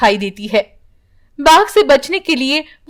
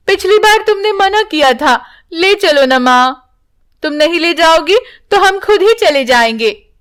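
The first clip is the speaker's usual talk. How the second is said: put-on higher, coaxing childlike whine; pleading young daughter; 5 semitones higher than usual. Daughters beg mother to take them to the forest, higher coaxing voice. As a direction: wheedle mother into taking you.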